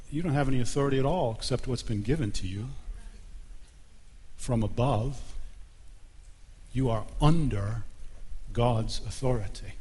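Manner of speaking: a hint of calm authority; calm Jesus. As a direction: answer evenly, without heat, settling it. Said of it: "Jesus very calmly looks at him and says".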